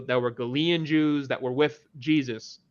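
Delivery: normal talking voice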